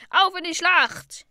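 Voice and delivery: high, loud, drawn-out war shout; rally the crew with a shout; battle cry. A narrator's reading. Zayden charging into battle, shouted battle cry. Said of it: "Zayden packte ein funkelndes Schwert und schrie".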